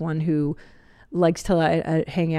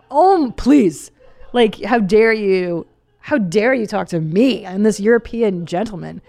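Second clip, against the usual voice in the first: lightly mocking aristocrat, louder, slow at first; imitating a snooty gentleman; haughty European gentleman; 2 semitones higher, 5 dB louder, slower than usual. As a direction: scoff like an offended snob. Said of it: "I was like".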